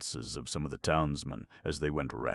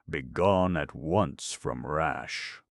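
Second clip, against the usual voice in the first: stern order; much slower than usual. Acted. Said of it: "ordered the chief scribe".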